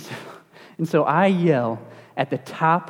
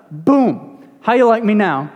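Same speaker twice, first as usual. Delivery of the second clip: mock smiting; 4 semitones higher, 5 dB louder than usual. Playing God retaliating against a questioner.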